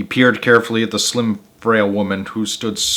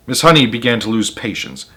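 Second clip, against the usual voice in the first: usual speaking voice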